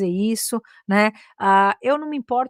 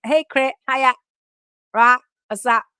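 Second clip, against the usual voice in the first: slangy rapper greeting; 3 semitones higher, 6 dB louder than usual. Retold or imitated. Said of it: "Onde você tá aprendendo esse inglês?".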